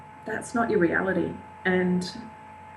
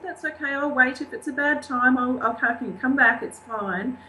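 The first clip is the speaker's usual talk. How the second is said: reassuring; 6 semitones higher than usual. Retold or imitated. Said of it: "try and bring down the level of anxiety".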